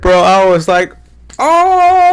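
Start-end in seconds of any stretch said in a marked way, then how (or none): 1.4-2.1 very high, loud triumphant "oh"; hype yell. Retold or imitated. Jumping around after the win, very high hype yell. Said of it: "fucking yelling and shit".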